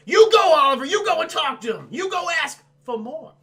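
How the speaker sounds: high, loud cheering as the orphans; kids cheering him on. Retold or imitated. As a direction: egg Oliver on, high and loud like a crowd of kids. Orphans egging Oliver on.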